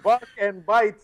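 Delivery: put-on Russian accent. Russian killer joking about bark and bite, mock Russian accent. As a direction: joke in a put-on Russian accent, near laughing. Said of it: "same accent for all Russians in this episode".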